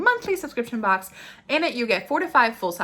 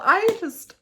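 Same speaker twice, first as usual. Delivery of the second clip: usual speaking voice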